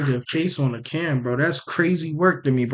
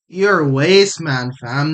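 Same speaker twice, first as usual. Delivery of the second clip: put-on Toronto roadman accent; 3 dB louder than usual. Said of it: "The Toronto accent's terrible".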